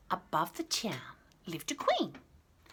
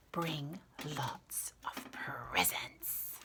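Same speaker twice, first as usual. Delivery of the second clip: whispering; 4 semitones lower, 7 dB quieter, much slower than usual. A narrator's reading. Whispered aside in invitation.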